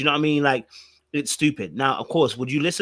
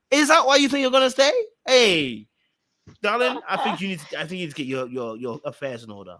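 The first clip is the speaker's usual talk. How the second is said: high, loud mocking scorn; mocking a reality contestant to her face; scornful disbelief; 4 semitones higher, 4 dB louder than usual. Real, not acted. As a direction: sneer the question then coo darling. Mocking Ella, calling her darling.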